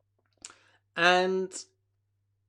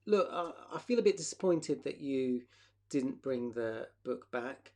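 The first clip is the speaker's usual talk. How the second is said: gentle disappointment; 3 semitones lower than usual. Shown as a demonstration. To a friend who forgot the book, gently disappointed. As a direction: state it kindly, no blame. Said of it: "Maybe I feel disappointed and I say".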